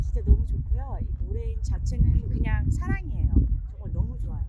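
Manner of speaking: loud, gushing stage-actor voice; hammy stage actor. Pretend. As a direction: overact the gratitude theatrically. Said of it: "연극 톤으로".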